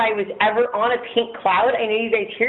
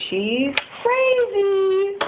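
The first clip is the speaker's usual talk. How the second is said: laughing disbelief; 12 semitones higher, much slower than usual. Real, not acted.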